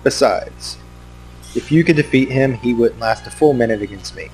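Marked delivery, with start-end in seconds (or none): 0.0-3.0 taunting villain. Pretend. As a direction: gloat over your rival. Voicing Zanaha taunting.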